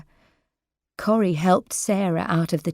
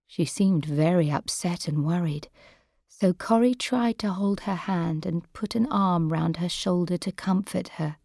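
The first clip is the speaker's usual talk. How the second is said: plain reading voice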